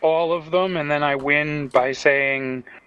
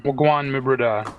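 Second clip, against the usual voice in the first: Jamaican accent. Shown as a demonstration. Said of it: "Guan means what's going on".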